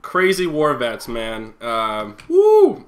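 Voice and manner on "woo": excited cheer. Real, not acted. Closing cheer.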